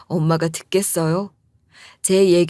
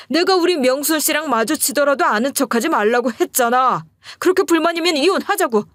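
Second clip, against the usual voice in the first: shouting back; 5 semitones higher than usual. Retold or imitated. Man shouting at his wife, indignant. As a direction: bellow it like the guilty party turning it around. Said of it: "이런 식으로 소리치면서 적반하장으로".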